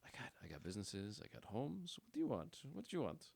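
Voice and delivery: a hint of back-alley salesman; shady alley seller. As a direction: play a pushy alley hawker. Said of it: "that guy in the alley".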